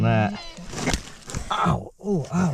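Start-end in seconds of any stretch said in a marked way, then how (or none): 1.5-2.5 sharp ow of real pain; pained yelp. Real, not acted. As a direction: yelp as your hand gets hurt. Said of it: "that hurt my hand".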